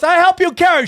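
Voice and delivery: put-on high, broken-English Asian accent; imitated Asian accent. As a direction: mimic the shop lady's Asian accent. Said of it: "she goes".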